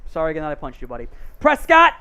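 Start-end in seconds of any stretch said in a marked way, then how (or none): 1.4-1.9 punchy, raised call ending on a drawn-out finish; live play-by-play. Real, not acted. Host calls a completed pass live, play-by-play. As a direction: call the completion with a burst of volume.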